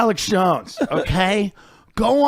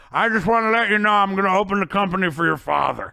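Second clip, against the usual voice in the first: funeral speech; 3 semitones higher than usual. Retold or imitated. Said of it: "Bob then walks around at his funeral and goes".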